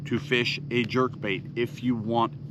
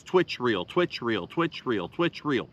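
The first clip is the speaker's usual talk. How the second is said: rhythmic cadence; 3 semitones lower than usual. Shown as a demonstration. Explaining walking the dog to anglers, low rhythmic chant. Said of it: "walking the dog is".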